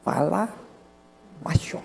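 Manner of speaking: hushed, broken into separate words; slow, quiet hushing. Retold or imitated. Husband repeating it to his nervous wife, slow and hushed. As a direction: spell it out slowly and softly. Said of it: "o marido dela fala assim".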